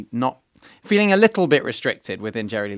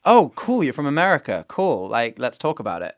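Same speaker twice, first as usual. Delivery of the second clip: keen listener; 2 semitones higher than usual. Acted. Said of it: "It's more that it's".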